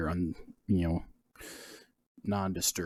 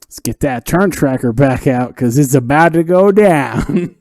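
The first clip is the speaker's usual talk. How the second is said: excited; 6 semitones higher, 12 dB louder than usual. Real, not acted. GM hypes the coming fight.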